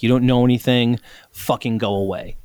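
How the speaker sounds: mock Valley Girl wife. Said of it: "Nick always sounds like a Valley Girl".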